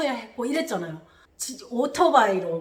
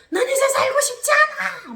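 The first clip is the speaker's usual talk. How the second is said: high, loud anguished wail; re-enacted sobbing scream of despair; despairing cry; 6 dB louder than usual. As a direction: cry out at breaking point. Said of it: "그 절망스러운 모습".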